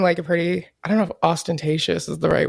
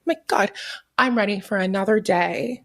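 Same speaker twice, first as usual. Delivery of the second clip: cheery morning voice. Pretend. Parody waking at sunrise.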